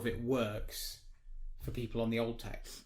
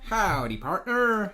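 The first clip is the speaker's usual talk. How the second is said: cowboy greeting; 7 semitones higher, 6 dB louder, much slower than usual. Pretend. Cowboy greeting for each follower.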